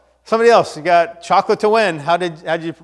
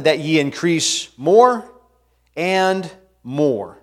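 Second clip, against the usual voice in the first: scripture reading. Acted. Reads scripture aloud.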